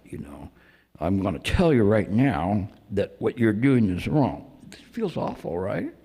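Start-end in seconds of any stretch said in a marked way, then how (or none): 1.0-4.5 pointing lecture. Retold or imitated. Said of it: "people that they point when they're trying to make a point like that".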